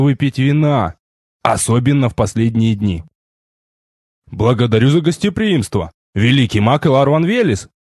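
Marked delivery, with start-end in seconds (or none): 4.3-7.7 ceremonious. Acted. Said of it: "церемонно склонил я голову".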